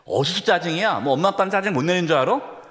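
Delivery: mildly acted snappish retort; irritated parent. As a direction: answer a child's irritation with a touch of your own. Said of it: "이렇게 하면서 같이 짜증 내면은".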